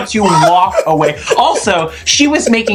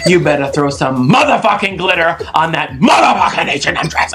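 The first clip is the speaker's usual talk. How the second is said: emphatic imitated telling-off; RuPaul impression. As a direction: punch out the swearing like a diva judge. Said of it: "And she goes".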